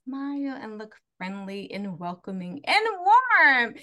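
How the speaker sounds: slow, exaggerated sweetness; hammed-up welcoming churchgoer tone; fake friendly. Showing how she code switches at church, fake friendly.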